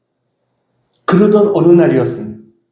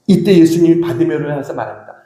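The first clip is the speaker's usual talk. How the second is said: usual speaking voice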